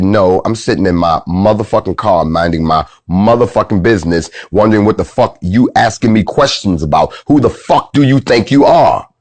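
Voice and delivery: unrestrained cussing out, building at the end; retold angry retort. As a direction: re-enact telling her off, rising to the last question. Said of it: "without any breaks on my mouth".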